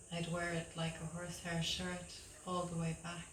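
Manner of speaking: measured poem reading with pauses between lines; poetry reading. Acted. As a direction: read your poem to an audience, line by line. Reads own poem aloud.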